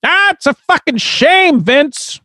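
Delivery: very high, squealed mock lament; high put-on voice. Co-host laments an injury to Vince, high put-on voice. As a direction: squeal it in a character falsetto.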